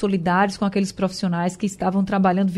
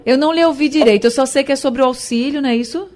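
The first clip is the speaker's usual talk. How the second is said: loud and fast over a bad line; speaking up to caller; 5 semitones higher, 3 dB louder, faster than usual. Real, not acted. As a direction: raise the voice so the caller hears. Bad phone line, caller unheard. (falando alto ao telefone)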